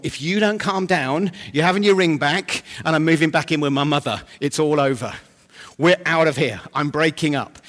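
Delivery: lightly voiced indignant boat; a hint of a partner threatening to walk out; fed-up boat. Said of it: "of the boat saying to the storm".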